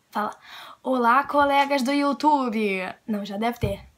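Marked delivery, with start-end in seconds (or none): 0.8-2.8 slow, stiff formal hello; formal mock greeting. Vlogger trying a stiff formal greeting, slow. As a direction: say it like a stiff presenter. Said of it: "A gente fala o quê?".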